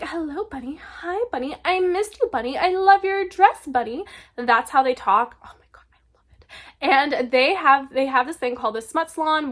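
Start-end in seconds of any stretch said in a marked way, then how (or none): 0.0-4.1 put-on higher, sugary girly greetings rising toward the end; mock sweet bunny talk. Reviewer mimicking the book's bunnies greeting each other, mock sweet. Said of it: "They're like". 5.4-6.5 whisper. Real, not acted. Gushing aside after bunny impression.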